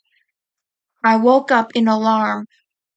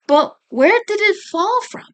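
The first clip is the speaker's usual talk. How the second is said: higher, curious query; thoughtful mother; 8 semitones higher than usual. A narrator's reading. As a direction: gently wonder aloud. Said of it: "she says".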